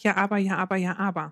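leiser, fallender Nachahmer des Kindes; Mutter äfft nach. Retold or imitated. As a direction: gibt das Quengeln leise und abfallend zurück. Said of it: "und ich sag". (Mutter spiegelt das Kind leise nachäffend)

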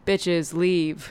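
low, inflectionless deadpan delivery; monotone voice. Retold or imitated. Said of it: "in a monotone voice".

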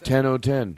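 "Ten oh ten" run together, nasal vowels, lazy t's; uneducated way of saying it. Shown as a demonstration. Host mocking how an uneducated person says the time, mumbled. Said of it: "That's the way an uneducated person says it".

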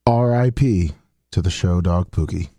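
sad. Acted. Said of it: "do your best sad".

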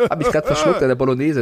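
laughing after swallowing wrong; coughing laugh, food went down wrong; choking on food. Real, not acted. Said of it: "deswegen rede ich so".

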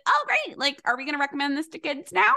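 high, fast sarcastic cheer; mock enthusiasm. The hosts imitate their old diet-culture selves, sarcastically gushing. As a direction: play the brainwashed dietitian, gushing. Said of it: "we'd probably be like".

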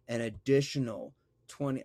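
slowed-down demonstration, words stretched out; deliberately slow. Shown as a demonstration. Host demonstrating slowed speech for confused podcast listeners, deliberately slow. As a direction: draw out "additional twenty" slowly for the listener. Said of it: "if I say it slowly right now".

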